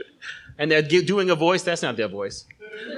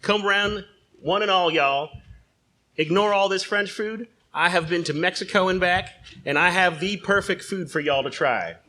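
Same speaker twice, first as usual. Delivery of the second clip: a lightly voiced folksy salesman, hamming up the pitch; pitchman John Corn Tractor; 2 semitones higher than usual. John Corn Tractor pitching flan in a restaurant, lightly voiced huckster. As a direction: sell the canned flan like a carnival barker. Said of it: "I am John Corn Tractor".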